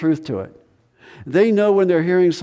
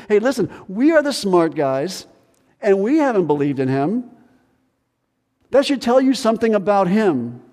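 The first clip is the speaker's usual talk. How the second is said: higher, smug know-it-all voice; elitist; 5 semitones higher than usual. Retold or imitated. Pharisees boasting to officers, smug and elitist. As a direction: lord it over the officers. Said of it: "Very elitist".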